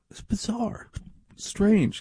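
high, thin, pinched exclamation; appalled squeak; aghast. Real, not acted. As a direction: gasp it out in disbelief. Reacting to every-other-year parties.

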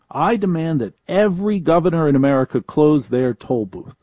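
a firm, commanding decree from a podium; mock presidential demand. Radio host voicing Donald Trump demanding governors close toll booths, mock decree. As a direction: proclaim it like the president giving an order. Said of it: "stand up and say".

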